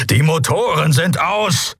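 high, angry snort; barely suppressed fury. A narrator's reading. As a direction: snort it with anger straining through. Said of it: "schnaubte Kero mit kaum unterdrückter Wut".

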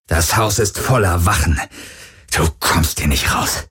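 strained, pained warning; forced out in pain. Acted. Wounded henchman warning the boy, strained with pain. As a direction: push the threat out through pain. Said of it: "presste Heska unter Schmerzen hervor".

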